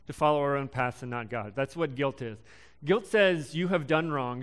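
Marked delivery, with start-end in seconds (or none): 2.8-4.4 slow, with the weight on "done"; stress on done. Shown as a demonstration. Preacher setting guilt against shame, slow and firm. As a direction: lean on "done" to mark what guilt is about. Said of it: "Shame says".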